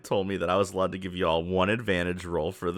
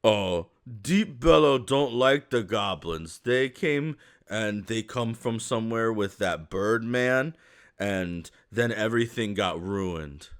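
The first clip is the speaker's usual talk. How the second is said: sulking ogre; slower than usual. Acted. Ogre tells his sad story.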